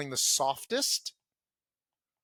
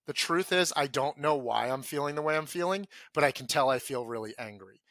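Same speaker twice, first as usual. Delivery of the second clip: feeling it, dropped in. Shown as a demonstration. Man admitting his anger to himself: grounded, sincere. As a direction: let the words come from the chest, not the head. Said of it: "trying to demonstrate feeling it".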